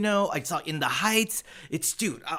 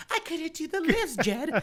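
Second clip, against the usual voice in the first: mock whiny heroine; 10 semitones higher, 4 dB quieter than usual. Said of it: "they couldn't do the lift".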